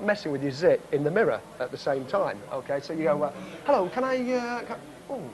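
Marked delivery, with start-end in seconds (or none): 3.6-5.2 higher-pitched, faltering customer greeting; distracted server. Burger server greeting first customer while picking a zit, distracted. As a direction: start politely, then lose the thread in hesitations.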